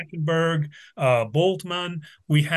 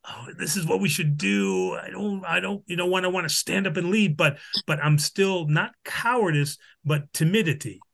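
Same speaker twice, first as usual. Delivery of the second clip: a touch of hesitant, timid voicing; lightly timid Thomas; 2 semitones higher than usual. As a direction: voice Thomas as mildly unsure of himself. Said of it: "it's timid".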